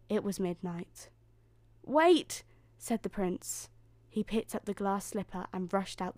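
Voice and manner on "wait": high, loud single cry; calling after her. A narrator's reading. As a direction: call out to stop her leaving. Prince calls after fleeing Cinderella.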